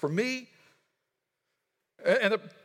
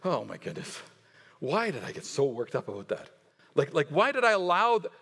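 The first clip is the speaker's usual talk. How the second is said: laughing at yourself; 4 semitones lower than usual. Pretend. Preacher shows congregation laughing at their fear, lower, wry. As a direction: shrug off your own overreaction. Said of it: "laugh at ourselves and say".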